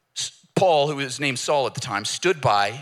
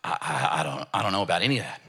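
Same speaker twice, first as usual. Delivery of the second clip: stammering bewilderment; 8 semitones lower, faster than usual. Retold or imitated. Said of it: "eyes wide, like".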